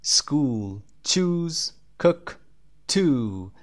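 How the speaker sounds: words read out slowly and clearly; model word list. Shown as a demonstration. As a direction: model each word for the class to repeat. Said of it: "همهٔ اینها اوی کشیده هستن به جز cook".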